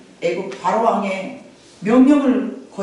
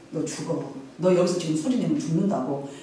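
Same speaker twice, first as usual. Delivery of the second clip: low, much softer warning; hushed threat; 4 semitones lower, 7 dB quieter than usual. Retold or imitated. Mother hushing her crying baby, low hushed threat. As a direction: hiss a warning to keep the baby silent.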